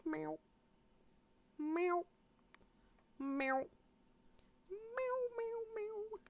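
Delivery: high, soft catcall meows; soft mock meow. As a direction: purr out teasing meows. Mocking "damn sexual" line.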